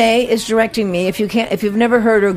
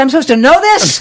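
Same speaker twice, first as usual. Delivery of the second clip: retold disbelieving question, raised a little; imitating dismay, half laughing; incredulous; 5 semitones higher, 4 dB louder than usual. Auditioner to her fellow candidates, incredulous.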